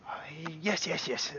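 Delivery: high, hushed and hesitant; unsure yeses in a small high voice; halfling shopkeeper. Acted. Halfling unsure how to greet them: high, soft, hesitant. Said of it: "and goes".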